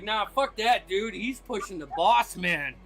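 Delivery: put-on loud drunk jeering at the brawl; rowdy drunk. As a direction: egg the fight on like a tipsy onlooker. Drunk guy voiced by GM.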